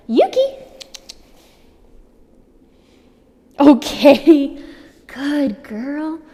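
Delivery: loud, very high dog praise; high squeaky praise. Real, not acted. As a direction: gush over the puppy, high and loud.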